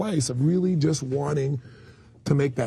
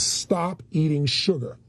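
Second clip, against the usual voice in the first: mock intense command; 4 semitones higher, much slower than usual. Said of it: "with such intensity".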